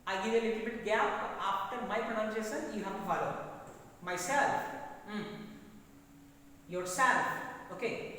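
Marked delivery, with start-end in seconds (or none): 4.0-4.6 "Myself" with a strong "self"; my-SELF, modelled for repetition; stress on second syllable. Shown as a demonstration. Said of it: "You pronounce after me". 6.7-7.2 "Yourself" with a loud punch on "self"; your-SELF, modelled for repetition; stress on second syllable. Shown as a demonstration. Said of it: "You pronounce after me".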